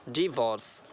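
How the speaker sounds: डिवोर्स with weight on the opening "dee"; stress on डी. Shown as a demonstration. Teacher showing where stress goes, stressed DEE-vors. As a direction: lean on "dee" in डिवोर्स, then fall. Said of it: "डी पर stress देंगे".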